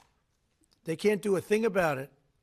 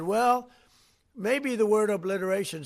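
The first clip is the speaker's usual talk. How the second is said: higher, hedging mock quote; mocking CNN; 4 semitones higher than usual. Mocking CNN's hedge to reporters, higher pitched. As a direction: mimic a doubtful anchor. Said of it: "C N N said".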